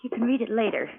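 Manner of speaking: soft shushing, voice dropped; hushing. Acted. Wife to husband outside the sickroom, soft urgent hush. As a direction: hush him before the old man hears.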